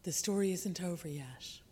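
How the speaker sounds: hushed self-soothing whisper; whispered to oneself. Shown as a demonstration. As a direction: breathe it like a private reassurance. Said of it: "I find it a great solace to say".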